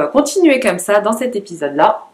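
between sips of coffee; drinking coffee. Real, not acted. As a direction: talk around a sip of coffee. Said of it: "je bois un peu mon café matinal".

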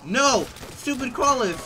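high, loud frustrated outburst; real annoyed shout; angry yell. Real, not acted. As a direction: curse the crawlers. Caught by crawler.

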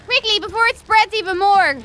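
urgent. Acted. Urging evacuation.

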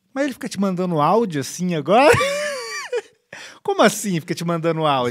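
hammed-up indignant questioning; mock disbelief, overplaying a jealous friend; exaggerated reenactment. Re-enacting a friend's jealousy over audios, exaggerated. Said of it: "que reencenação, né? Exagerada da verdade".

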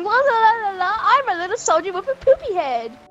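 put-on childish la-la taunt of a soldier; mocking imitation.

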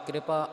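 ਕਿਰਪਾ as "kri-pa", r joined to the k; subjoined r. Shown as a demonstration. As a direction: say ਕਿਰਪਾ opening on a kr cluster. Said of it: "ਇੱਥੇ ਪੈਰ ਦੇ ਵਿੱਚ ਰਾਰਾ ਹੈ".

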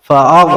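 ফাআগ with the vowel pressed from the throat; Arabic ain sound in ফাআগ. Shown as a demonstration. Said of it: "ওয়াইন উচ্চারণ ঠিকভাবে হবে".

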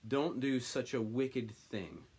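slow, earnest plea, stress on don't; mild begging. Acted. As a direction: ask them gently not to. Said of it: "he begged".

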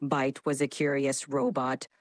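low, dramatic robot voice; robotic voice. Shown as a demonstration. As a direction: speak like a metallic cyborg. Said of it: "Initiating dramatic robotic voice".

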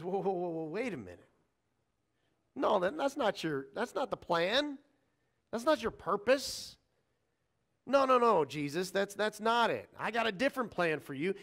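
mock protest, rising in pitch on the objections; acted protest. Peter objects to Jesus's plan to die, acted protest. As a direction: play a disciple cutting in to object.

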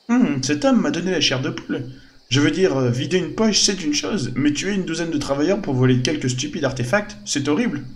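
put-on a young adventuress, half-disgusted; shaken young woman. Voices companion reacting to the man.

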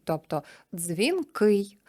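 дзвінкий slowed, stress on кий; slow end stress. Shown as a demonstration. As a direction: draw out дзвінкий, landing on кий. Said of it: "закінчення «ий»". (повільно, наголос на «кий»)

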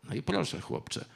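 plain reading voice

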